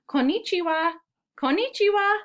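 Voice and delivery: high, singsong storybook hello; calling a greeting. A narrator's reading. Voices story characters calling hello.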